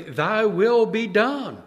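slow, hushed prayer phrase; reverent prayer. Retold or imitated. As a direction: say it slowly, like a vow.

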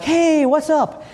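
bright high friendly greeting, drawn out; friendly hey. Retold or imitated. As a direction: greet the guard casually, slowly. Friendly greeting to border guard.

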